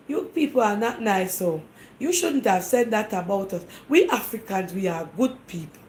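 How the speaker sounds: a moderate put-on African accent, scolding. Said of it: "I'm just putting on my African dialect".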